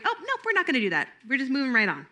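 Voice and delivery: quick, high playful brush-off, fast; breezily steer the kid away; playful redirect. Shown as a demonstration. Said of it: "you heard me do that".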